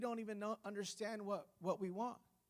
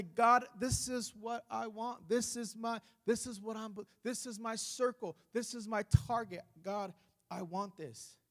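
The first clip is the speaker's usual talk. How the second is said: louder, firm claim on "this"; bold declaring prayer; 2 semitones higher, 5 dB louder than usual. Shown as a demonstration. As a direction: state the target to God with conviction.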